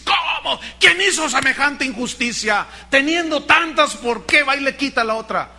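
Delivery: mock outraged king; a touch of royal indignation; retold angry king. King David hears the story, mild mock outrage. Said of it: "el rey se enoja".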